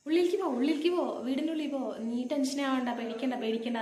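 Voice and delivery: a mother loudly urging her frightened daughter indoors; urgent mother. Retold or imitated. Mother urging scared daughter inside.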